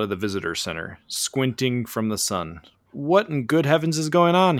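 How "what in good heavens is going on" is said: lightly acted higher-pitched yell; a half-raised, puzzled holler; yelling over. A narrator's reading. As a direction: call across with mild alarm, not full volume. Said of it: "he yells over to Lucy and Danny".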